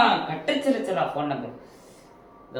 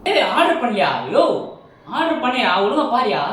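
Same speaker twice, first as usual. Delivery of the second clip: loud, high furious rant down the phone; angry complaint; 4 semitones higher, 4 dB louder than usual. Acted. Customer yelling at the biryani shop, angry shout.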